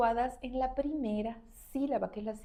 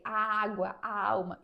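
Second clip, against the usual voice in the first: Portuguese pronunciation; slower than usual. Shown as a demonstration. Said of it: "en portugués es así".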